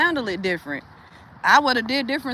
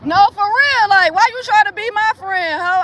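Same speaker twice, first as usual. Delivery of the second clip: higher and louder, worked up; fired up; 9 semitones higher, 5 dB louder than usual. Real, not acted. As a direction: get heated and loud. Heated rant, pitch and volume up.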